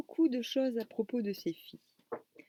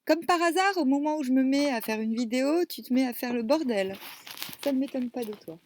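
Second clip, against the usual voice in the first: scolding a pet; 3 semitones higher, 5 dB louder than usual. Real, not acted. Scolding cat making a mess.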